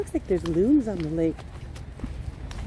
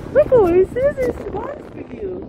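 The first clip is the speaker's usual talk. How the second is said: excited high call; 11 semitones higher, 4 dB louder than usual. Real, not acted. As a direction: squeal to point out swans.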